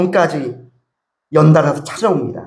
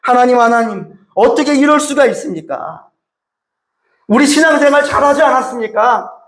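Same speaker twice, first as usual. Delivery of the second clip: retold wife's lament; 4 semitones higher than usual. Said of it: "하나님께 원망을 쏟아내었대요".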